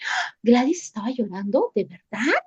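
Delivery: gasp, then softly fish for gossip; hushed mock shock, rising questions; gossipy disbelief. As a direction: act scandalized and eager to confirm it. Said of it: "cómo preguntaría por ese chisme".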